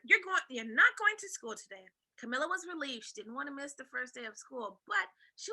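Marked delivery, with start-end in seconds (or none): 0.0-1.9 stern order. Acted. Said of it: "her mother ordered".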